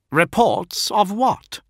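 high, loud, drawn-out demand; sharp demand. A narrator's reading. Fulgrim questions the envoy's reports, demanding. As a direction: demand an answer, stretching the words. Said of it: "demanded Fulgrim".

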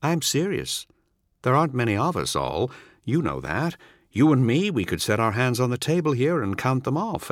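a hint of a grim soldier pleading; urgent old comrade. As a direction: make him see the danger. Narrator voices the visitor John.

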